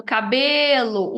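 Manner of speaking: "cabelo" slowed, leaning on the middle syllable "be"; teacher marking the "be" of "cabelo"; stress on BE. Shown as a demonstration. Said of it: "é a sílaba mais forte".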